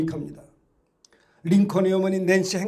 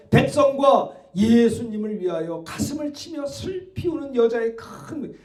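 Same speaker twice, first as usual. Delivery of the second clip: ordinary talk, nothing marked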